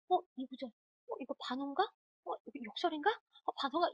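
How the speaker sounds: puzzled mutterings of a stuck exam-taker; dithering student. Retold or imitated. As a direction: imitate a confused student puzzling aloud. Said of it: "이러고 있어".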